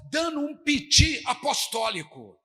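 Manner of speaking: loud, slow mocking jab. Pastor mocking the apostles' hysteria, loud slow sarcasm. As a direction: ridicule the panicking apostles.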